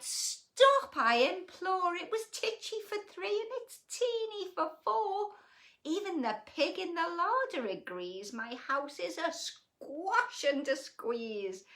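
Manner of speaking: begging it to stop, worked up; old lady crying out. A narrator's reading. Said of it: "The little old lady cried".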